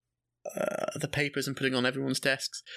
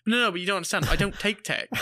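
higher-pitched, insistent objection; pleading protest; 5 semitones higher than usual. Retold or imitated. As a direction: retell a pupil's urgent plea to the teacher. Protests teacher sending him back.

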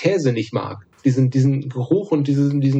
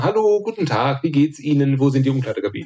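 polite warm-up. Shown as a demonstration. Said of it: "erst so Kontaktphase, anwärmen".

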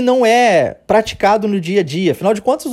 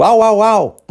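light imitated bark, louder; dog barking; 3 semitones higher, 4 dB louder, slower than usual. Shown as a demonstration. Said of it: "lembra do cachorro latindo". (latido de cachorro imitado, leve)

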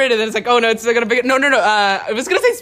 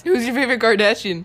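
repeated more clearly; 3 semitones higher than usual. Real, not acted. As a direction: say it up for someone who misheard. Repeats after listener's startled "What?.

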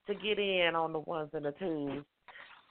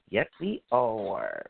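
low and slow; 6 semitones lower, slower than usual. Real, not acted. Slow low repeat of same words.

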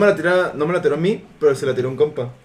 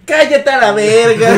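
put-on drunk snap; 3 semitones higher, 4 dB louder, slower than usual. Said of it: "Y llega y dice".

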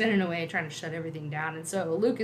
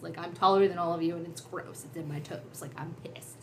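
whiny Chewbacca. Retold or imitated. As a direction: grumble and whine in disgust. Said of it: "I'm gonna whine because I hate this".

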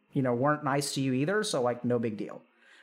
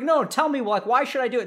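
demanding parent; 7 semitones higher, 4 dB louder than usual. Acted.

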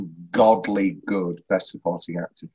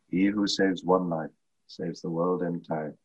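sad quote; 4 semitones lower, 5 dB quieter than usual. Retold or imitated. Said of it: "quoting the sad line from Schindler's List".

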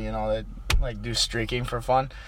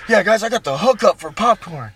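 higher mocking show-off; mock bragging voice; 8 semitones higher, 4 dB louder than usual. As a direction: mimic a smug bragger. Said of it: "mocking the flexer".

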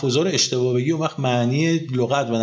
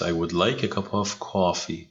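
slow, softer model sentence; slow model read; 6 semitones lower, 5 dB quieter, much slower than usual. Shown as a demonstration. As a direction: spell it out slowly for the learner. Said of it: "Nice, very nice". (آهسته و شمرده، برای تکرار شاگرد)

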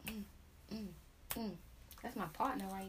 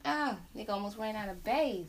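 laughing repeat; 4 dB louder than usual. Real, not acted. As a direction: say it again, still chuckling. Repeating the joke while laughing.

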